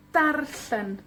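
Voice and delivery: Tarsen with TAR stressed; TAR-sen, penultimate stressed; stress on first syllable. Shown as a demonstration. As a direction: lean on TAR in Tarsen, then fall. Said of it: "cae en la penúltima sílaba".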